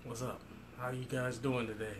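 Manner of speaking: low, quiet, menacing crime boss; Kingpin impression. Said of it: "my little King, Kingpin impression".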